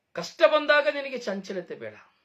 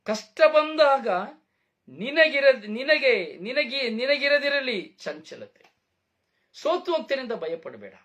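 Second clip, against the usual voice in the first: emphatic proclamation; 3 semitones higher, slower than usual. Shown as a demonstration. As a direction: proclaim the verse back with force and weight. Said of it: "ಇಲ್ಲ".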